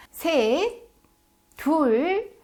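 high, loud counting with pauses; mock stern mom countdown; mother's warning countdown. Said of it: "엄마가 카운트다운을 하는 겁니다".

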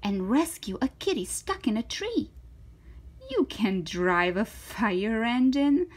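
lively, swooping story read; reading to children. Acted. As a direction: voice an eager, confident little girl. Reads to children, voicing figures.

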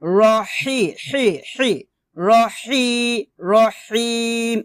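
হি with h pressed from mid-throat; রহিম with an effortful pharyngeal h; throaty Arabic H. Shown as a demonstration. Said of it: "হাটাকে একটু কষ্ট করে গলার মাঝখান থেকে".

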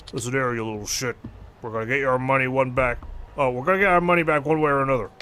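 lightly voiced debt collector; a hint of a thug on the phone; menacing loan shark.

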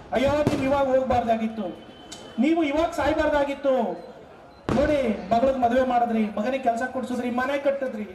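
a hint of a sobbing wife; mock wailing widow. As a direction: imitate a widow crying over her husband. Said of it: "ಅಂತಿತ್ತು ಅಳ್ತಾ".

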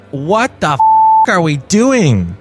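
mock distress, rising to a high plea for help; bewildered actors. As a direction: imitate lost actors, drawing it out then crying high. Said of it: "All of the actors were like".

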